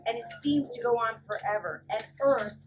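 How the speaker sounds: storybook read-aloud voice; reading to children. A narrator's reading. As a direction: read it brightly to little kids. Reads picture book to kids.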